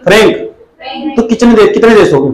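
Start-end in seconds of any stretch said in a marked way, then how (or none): 0.0-1.2 फ्रैंक stretched very slow, rising at the end; drawn-out drill word. Shown as a demonstration. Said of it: "उसका नाम है फ्रैंक". (फ्रैंक को लंबा खींचकर याद कराना)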